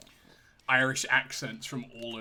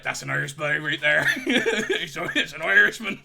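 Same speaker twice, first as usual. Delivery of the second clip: laughing; 2 semitones higher, 9 dB louder than usual. Pretend. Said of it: "And they'd be like".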